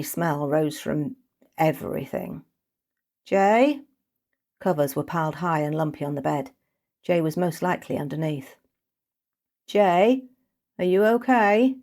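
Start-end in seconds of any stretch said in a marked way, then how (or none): 3.2-3.8 anxious call. Acted. Kesa calling into room. 9.7-11.8 high, loud anxious question; worried call. Acted. Kesa calling to Jay under the covers, worried.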